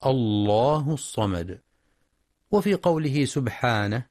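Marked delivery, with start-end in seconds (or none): 0.1-1.6 الله begun afresh with a dark, thick l; slow الله الصمد, full heavy lam in الله. Shown as a demonstration. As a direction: start on "Allah" with the lam made emphatic. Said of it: "وتفخم إذا ابتدأ بها".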